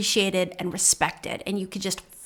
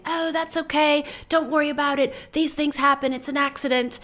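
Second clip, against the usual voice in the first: higher-pitched, easygoing reassurance; retold kind, forgiving voice; kindly reassurance; 5 semitones higher than usual. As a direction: gently brush off an apology, pitched up. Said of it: "always just kind and saying".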